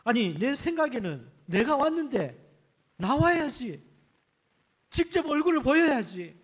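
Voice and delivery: proud general ranting because he was snubbed; angry general. Acted. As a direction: play Naaman fuming at the insult. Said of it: "막 그렇게 막 화가 나서 이야기하는 거예요".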